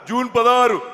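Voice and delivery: lightly mimicked elder politician; V Hanumantha Rao. Politician telling his birthday, lightly mimicked voice. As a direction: answer firmly in the politician's voice. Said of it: "Hanumantharao గారి bit ఒకటి".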